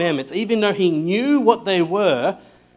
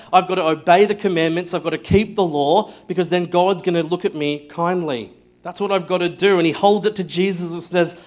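imitating the rich man; 2 semitones higher, 3 dB louder than usual. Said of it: "he's like".

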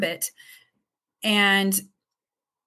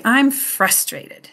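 put-on slow modelling for a child; 3 semitones higher, much slower than usual. Shown as a demonstration. Parent giving a toddler words to repeat, said slowly. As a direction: stretch each word out slowly.

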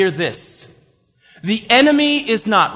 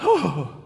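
sudden sucked-in gasp; dramatic gasp; 5 semitones lower, 4 dB quieter than usual. Shown as a demonstration. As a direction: gasp as if startled. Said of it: "I feel like I should be like".

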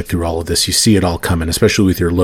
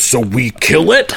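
monster head; 5 semitones higher than usual. Acted. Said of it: "I like that voice".

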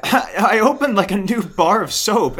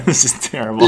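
normal talking voice

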